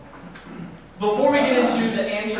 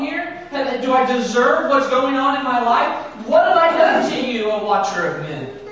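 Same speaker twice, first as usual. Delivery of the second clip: anguished questioning; 4 semitones higher than usual. Acted. Job demanding answers from God, anguished. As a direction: press God for answers in distress. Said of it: "he starts asking questions".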